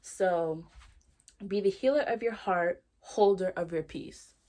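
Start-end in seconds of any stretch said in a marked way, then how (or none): 1.5-4.3 deliberate quote reading, slowing on the second half. Real, not acted. Host reading favorite tattooed quote, measured and deliberate. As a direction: read it out firmly, drawing out the ending. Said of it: "I'm gonna read it to you".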